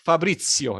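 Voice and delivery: Fabrizio with the Z said as "ts"; Italian Z. Shown as a demonstration. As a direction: say Fabrizio the Italian way, "Fa-BRIT-tsio". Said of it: "The most difficult things to be pronounced is the, the Z".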